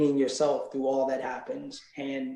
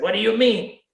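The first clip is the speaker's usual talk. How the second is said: higher, louder, lightly voiced carefree singer; a light take on an easygoing reggae star, pitched up; higher, lightly played laid-back legend, puzzled by the question; 8 semitones higher, 8 dB louder than usual. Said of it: "he's like".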